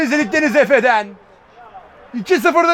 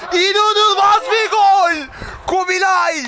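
higher, slow, amazed goal call; excited commentator; 5 semitones higher, slower than usual. Real, not acted. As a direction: stretch out the amazement. (hayranlıkla uzatarak)

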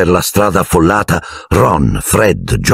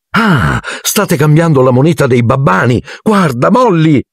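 higher, eager, delighted pointing out; enthusiastic; 10 semitones higher than usual. A narrator's reading. Mr Weasley showing Molly the Muggle money, high and eager. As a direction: share the wonder, bubbling over.

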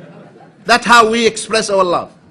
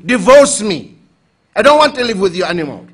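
mock angry wife; 5 dB louder than usual.

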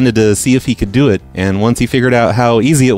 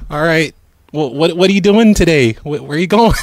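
higher, chirpy phone operator voice; prank caller voice; 6 semitones higher than usual. Acted. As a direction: play a cheerful phone company rep.

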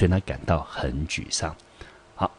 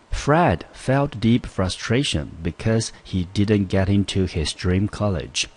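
slow, careful reading of the example; example sentence read aloud; 3 semitones higher, slower than usual. Shown as a demonstration. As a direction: read the example slowly for students. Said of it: "来，我们看例句". (慢速朗读英文例句)

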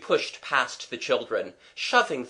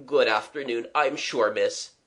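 dreamy. Acted. Dazed young man taking leave of miss, dreamily. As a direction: answer absently, a touch dreamy. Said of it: "he said dreamily".

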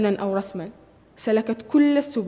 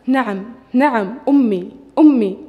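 enthusiastic; 7 dB louder than usual. A narrator's reading. Mother thrilled at her son's first word, loud joyful cry. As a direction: burst out with joy, pulling each word long. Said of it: "بيان بحماس".

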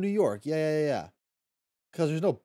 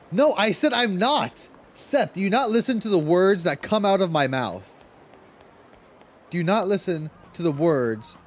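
exasperated; 3 semitones higher, 4 dB louder than usual. Real, not acted. Chat ignores what she said.

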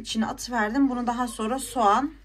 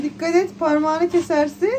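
retold warning; 6 semitones higher, 6 dB louder than usual. Vlogger retelling how she warned her friend of a cut finger, insistent warning. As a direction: re-enact an insistent warning, slowing at the end.

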